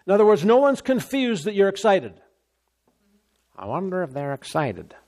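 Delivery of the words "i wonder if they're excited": much softer, wondering aside; doubtful onlooker. Acted. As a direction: drop the volume as if privately unsure. Mimics an onlooker doubting the excitement.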